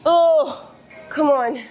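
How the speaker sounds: straining groans mid-rep; lifting weights. Real, not acted. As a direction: push through the last hard reps. Grinding out reps mid-set.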